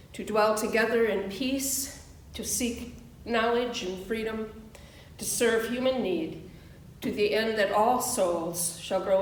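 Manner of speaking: steady, solemn unison recitation; recited covenant. Real, not acted. Minister leads the congregation in their covenant, solemn recitation. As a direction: recite it together as a vow.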